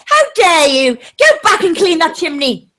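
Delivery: lightly voiced posh English lady scolding a servant; a hint of a stern English lady; mock posh scolding. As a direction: play-act a haughty mistress telling off a chimney sweep, only lightly. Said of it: "when you talk like that, that accent is heavy as fuck".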